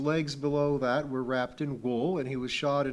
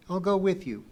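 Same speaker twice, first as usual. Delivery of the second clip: put-on high, louder insistent girl; 7 semitones higher, 5 dB louder than usual. A narrator's reading. Pee-wee insisting on going with Kip, firmly. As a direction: insist firmly, pitch raised.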